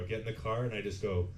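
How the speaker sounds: ordinary talk, nothing marked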